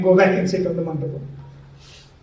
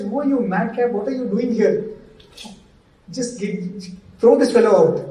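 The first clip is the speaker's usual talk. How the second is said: mildly indignant, pitch raised; retold perturbed outburst; 3 semitones higher than usual. Perturbed groom to intruding stranger, mildly indignant. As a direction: put mock outrage into it. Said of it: "he gets so perturbed".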